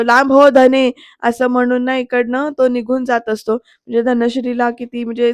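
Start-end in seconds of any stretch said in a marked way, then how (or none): 0.0-0.9 loud shout telling her to back off; louder, angry retold yell. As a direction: bark it out. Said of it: "Vidyadhar ओरडतो".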